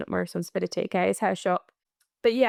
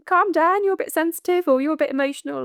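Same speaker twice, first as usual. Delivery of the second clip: louder, higher mock of a dismissive person; mocking dismissive people; 5 semitones higher, 3 dB louder, faster than usual. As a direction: parrot the people telling you to calm down, a bit higher.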